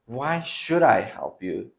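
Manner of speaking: slow, irritated why should I help you; annoyed refusal. Acted. Teacher acting an annoyed classmate, mildly irritated refusal. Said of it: "Kinda like anger".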